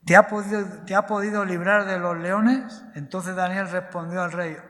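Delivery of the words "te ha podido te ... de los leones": calling out. A narrator's reading. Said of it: "llamó a voces a Daniel con voz triste".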